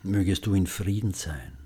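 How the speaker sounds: calm, tender spoken wish; gentle and loving. Shown as a demonstration. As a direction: offer peace gently. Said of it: "Wiederholen Sie die Sätze sanft und liebevoll".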